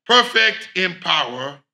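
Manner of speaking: hymn spoken not sung, swelling on each holy; recited hymn. Shown as a demonstration. Preacher closing the sermon by quoting a hymn, spoken recitation. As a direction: declaim the hymn lines with fervour. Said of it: "I'm just going to quote it".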